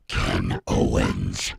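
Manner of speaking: low, slow, deadpan name; flat deadpan. Retold or imitated. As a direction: say it flat and unexcited. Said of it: "it usually sounds like this".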